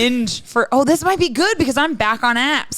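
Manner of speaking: loosely faked Scottish-Irish lilt; wandering accent. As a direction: let the mock accent roam between Scottish and Irish. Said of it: "this accent's going all over the place".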